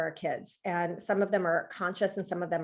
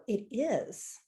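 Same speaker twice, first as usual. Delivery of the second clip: calm Buddhist; 3 semitones higher than usual. Retold or imitated. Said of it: "a Buddhist will ... say".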